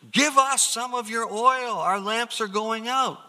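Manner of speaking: high, loud, pleading cry for oil; frantic begging; desperate plea. Acted. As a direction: beg like your lamp is dying. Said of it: "You know, desperation".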